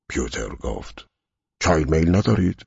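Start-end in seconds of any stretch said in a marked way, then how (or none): 1.6-2.6 higher, louder polite offer; attentive servant. A narrator's reading. Servant offering tea to his master, brightly deferential. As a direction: lift the voice in a courteous question.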